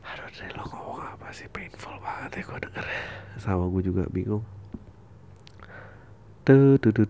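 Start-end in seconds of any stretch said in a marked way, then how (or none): 0.1-2.9 unvoiced self-mocking whisper. Real, not acted. Whispered aside to himself. 6.5-7.0 sudden loud repeated tuh. Real, not acted.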